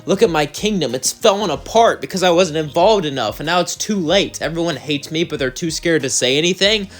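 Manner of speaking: acted tearful outburst. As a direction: lament a ruined life without real sobs. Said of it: "Lucifer would say, crying".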